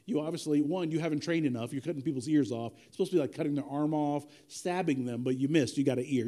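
lightly voiced Jesus telling off a follower; weary Jesus scolding. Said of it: "Jesus is like".

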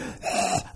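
mock gagging breath; breathy choking noise, imitating a panicked child; imitated choking. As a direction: imitate someone trying not to choke. Imitates boy choking on ink.

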